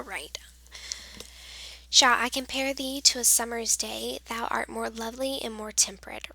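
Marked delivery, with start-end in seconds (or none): 1.9-6.3 sonnet read aloud in an even, flowing rhythm; poem reading. Shown as a demonstration. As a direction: recite the verse smoothly, line by line. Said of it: "I'm going to read to you".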